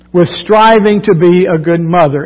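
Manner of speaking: "striving" marked as the key word; stress on striving. Shown as a demonstration. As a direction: lean on "striving" with a falling stress. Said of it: "I put emphasis on that word striving".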